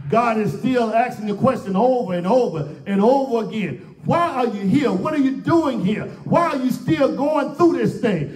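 insistent, rhythmic pulpit questioning; impassioned preaching. Real, not acted. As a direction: press each question on the congregation.

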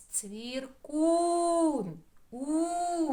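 Цвіркун with кУН hit loud and high; stress on У. Shown as a demonstration. Teacher showing the stress to children, кун punched. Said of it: "З силою промовимо".

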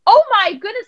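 high, loud exaggerated wow; playful overdone delight; mock amazement. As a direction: gush over the idea like it's brilliant. Mock-amazed reply to son's idea.

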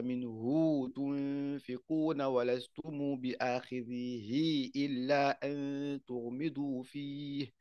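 Quran recitation, slow and drawn out. Shown as a demonstration. Teacher recites the verse to show the long madd, slowly. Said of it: "c'est pour ça que je dis".

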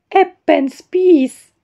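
slow, stretched go at a Swedish accent; attempted Swedish accent. Shown as a demonstration. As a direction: try a Swedish accent, drawn out and inexpert. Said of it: "I will never have Swedish accent".

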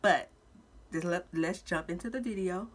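speaking with a retainer in; words slightly lisped around a retainer; wearing a retainer. Real, not acted. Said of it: "if I sound a little funny, I have my retainers in".

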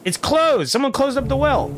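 surprised. Real, not acted. Surprised discovery in game.

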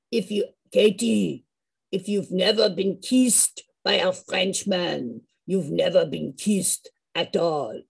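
flirty Frenchman. Retold or imitated. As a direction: lean in and purr it slowly like a charmer. Frenchman father flirting with her.

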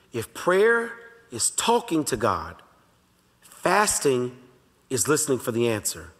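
each phrase spaced out very slowly for note taking; slow dictation. Shown as a demonstration. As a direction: say it slowly so they can write it down. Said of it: "I want you to write this down".

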